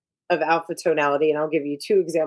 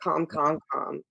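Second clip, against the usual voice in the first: softer, calming words; 6 dB quieter, slower than usual. Shown as a demonstration. Coach showing clients how to stay calm, soft and even. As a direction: ease the listener down gently. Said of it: "without getting emotional".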